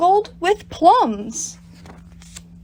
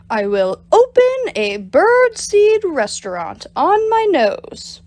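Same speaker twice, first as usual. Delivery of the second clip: higher, eager plotting; scheming excitement; 7 semitones higher than usual. Acted. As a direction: gloat over the plan. Bob boasts his plan.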